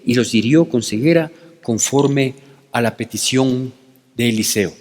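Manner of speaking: measured, reverent scripture reading; reverent Bible reading. Acted. Preacher reading scripture to his congregation, reverent and measured. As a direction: read the verses with care and reverence. Reads the Bible text aloud.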